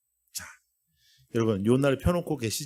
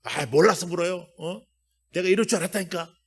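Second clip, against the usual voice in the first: sulky Jonah; 4 semitones higher than usual. Acted. Jonah sulking at God.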